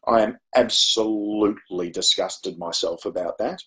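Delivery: slow, weighty mock telling-off; stern disapproval. Teacher jumping to conclusions about mum insults, mock stern disgust. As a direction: draw out the disgust like a scolding teacher.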